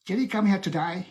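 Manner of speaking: shaky attempt at an Australian accent. Shown as a demonstration. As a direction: try an imperfect Australian accent. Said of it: "my Australian accent isn't that good".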